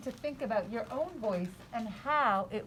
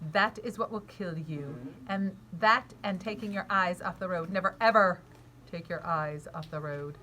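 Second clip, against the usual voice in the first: mild father voice; 4 semitones lower than usual. Acted. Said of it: "my voice is a little different".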